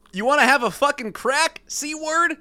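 high, heated taunt; acted angry challenge. A narrator's reading. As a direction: read it like picking a fight. Acted golf-course quarrel, read aloud.

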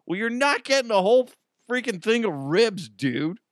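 high, fast exasperated telling-off; scolding dad. Retold or imitated. Dad scolding son about ribs, high and fast. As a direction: scold the kid, fed up.

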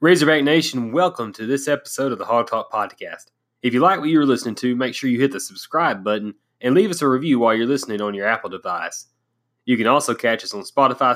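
upbeat announcer read of the show intro; podcast intro read. Acted.

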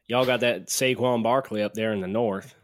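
a hint of mock Southern accent. Co-host obliging a request for accents, mock Southern accent. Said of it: "There's your, your Southern accent".

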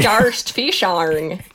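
very slow, drawn-out mock Australian; Australian accent. Australian accent, drawn out to friends who mock his attempt. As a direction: drag it out in a hammed-up Australian accent. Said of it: "That's exactly what they sound like".

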